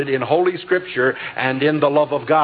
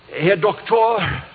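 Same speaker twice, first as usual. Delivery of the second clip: put-on slow, lightly German-accented "Herr Doktor"; a hint of a German lady's accent, drawn out; 4 semitones higher, slower than usual. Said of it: "She still had her German accent".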